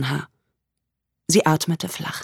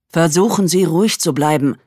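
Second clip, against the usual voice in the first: over a landline phone; 5 dB louder than usual. Acted. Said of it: "sagte die Stimme am Telefon".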